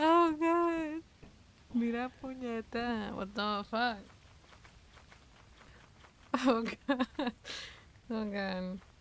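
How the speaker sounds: very slow words dragged out through helpless laughter. Reacting while playing a game, laughing uncontrollably. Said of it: "no puedo parar de reírme".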